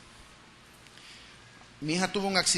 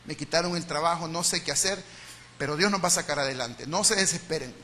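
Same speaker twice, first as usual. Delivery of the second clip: gentle reassuring father; 4 semitones lower than usual. Retold or imitated. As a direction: reassure the kids through hard times. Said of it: "El otro escenario es".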